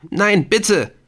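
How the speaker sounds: high, loud panicked begging; terrified plea. A narrator's reading. Ortolan begs Helen not to shoot, terrified. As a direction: beg for his life. Gun aimed at his head.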